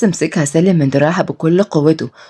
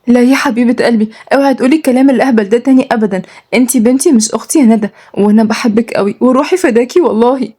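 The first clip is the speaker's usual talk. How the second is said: higher, lightly voiced loving sister; devoted sister, reassuring; 5 semitones higher than usual. Malak hugs her crying sister, reassuring. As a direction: comfort her with gentle insistence.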